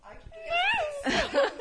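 hysterical laugh. Real, not acted. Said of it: "Ela tá gargalhando".

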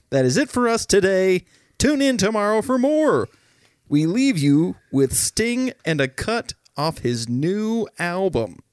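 news outro read. Retold or imitated. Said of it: "the Bill O'Reilly Freakout".

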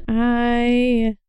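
coughing while talking; coughing fit. Real, not acted. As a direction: cough breaks the line. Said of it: "sorry for the sniffing and the coughing".

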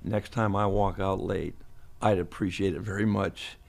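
measured reprimand. Retold or imitated. Coach retelling his boss's phone call, measured reprimand. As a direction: imitate a controlled telling-off, taking your time.

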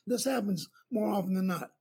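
ordinary delivery

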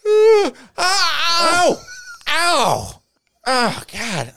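high strained yelps of pain; hammed-up hurting boyfriend; imitating his pain cry. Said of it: "he's like".

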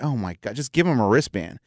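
mildly exasperated, just get it over with. Retold or imitated. Staff lady fed up with security, quietly exasperated. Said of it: "And she's like".

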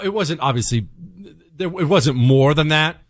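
normal talking voice

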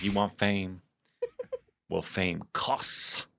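slow, measured dramatic challenge; understated theatrical speech with weighty pauses; committed monologue. Retold or imitated. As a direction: draw out a stern dance teacher's warning, lightly. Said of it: "I wasn't phoning it in. I was giving it".

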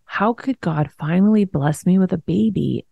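soft, breaking into a whisper at the end; despairing whisper. Retold or imitated. To herself after the tumor news, hushed and afraid. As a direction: let the question fade to a frightened whisper. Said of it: "And I'm just like".

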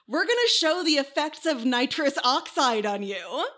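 hammed-up demonstrator's proclamation; mock lecturer announcement. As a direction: announce it to the whole hall. Quoting lecturers to their volunteer.

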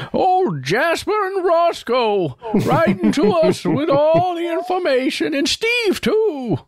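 put-on high, slow old prospector voice; cackly wheezy old timer. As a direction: cackle it out like a gold-rush prospector. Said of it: "I wanted to jump into old prospector voice".

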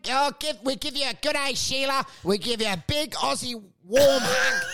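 hammed-up Aussie TV interviewer; Basil Zemplis. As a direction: play up the Aussie host patter. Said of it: "Basil Zemplis".

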